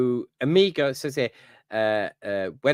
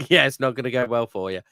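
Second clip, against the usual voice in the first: laughing echo; 3 dB louder, faster than usual. Retold or imitated. Echoes Ventress threat laughing.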